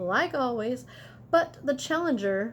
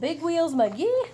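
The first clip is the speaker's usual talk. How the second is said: announcing name; 6 semitones higher, 3 dB louder than usual. Acted. Announces the character's arrival.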